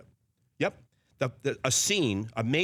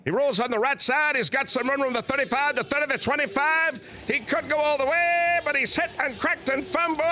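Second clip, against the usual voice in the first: Keith Jackson; 7 semitones higher than usual. Acted. Doing his famous impression for the hosts, booming higher announcer call. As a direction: call the game like a folksy veteran announcer, rising to a yell at the big run. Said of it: "Let me do it for you right now".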